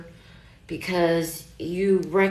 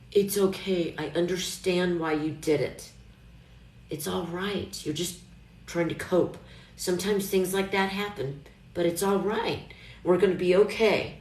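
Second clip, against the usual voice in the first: put-on parent soothing a child. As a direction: soothe yourself like a loving parent. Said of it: "I'm a parent to a child that I love".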